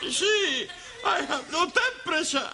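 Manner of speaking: talking round a thermometer; words slurred by thermometer; thermometer in mouth. Acted. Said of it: "you're looking at the wrong end".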